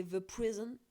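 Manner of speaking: "The Prison" with an English-sounding th and vowels; English accent. Shown as a demonstration. Vlogger showing viewers how English it sounds, in a light English accent. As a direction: say "The Prison" the way an English speaker would, rising at the end. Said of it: "là, ça fait grave anglais".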